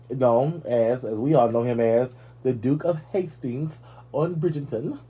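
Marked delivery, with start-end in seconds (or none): 2.4-5.0 trying out a light English accent. Shown as a demonstration. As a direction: attempt a posh British accent on the name. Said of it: "You see how my voice changed like that?".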